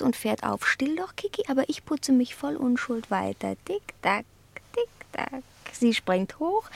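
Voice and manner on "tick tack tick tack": soft ticking. Acted. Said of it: "Im Takt meiner Zunge".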